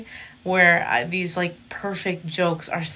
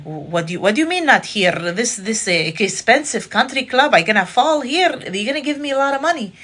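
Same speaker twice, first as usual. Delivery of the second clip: rising, louder, disbelieving questions; playing dumb at a rich lawyer, getting higher; mock baffled; 6 semitones higher, 6 dB louder than usual. Comic playing dumb to the club president, rising disbelief. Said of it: "And I was like".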